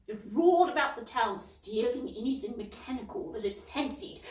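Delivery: a fussy, indignant lady, pitched high. Acted. Miss Polwarth warning Cauldron, prim and high. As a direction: read her like a proper busybody.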